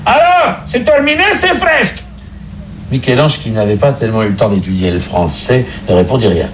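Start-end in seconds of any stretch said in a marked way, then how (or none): 0.1-2.0 much higher shouted pope voice; impatient pope calling through the door; pope shouting. Acted. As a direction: yell through the locked door. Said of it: "il cria".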